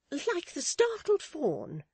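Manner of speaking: very high, loud, slow matron voice; snatch up the phrase, pitched right up; emphatic assent. Acted. Mrs Chick adopts Miss Tox's simile, emphatic assent. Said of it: "said Missus Chick".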